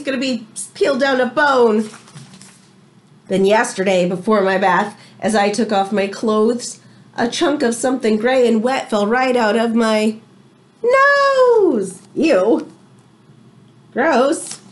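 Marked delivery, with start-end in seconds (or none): 3.3-12.0 lively read-aloud to the class; story reading. A narrator's reading. Teacher reading a storybook to her class, lively read-aloud. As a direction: tell it like a picture book to children.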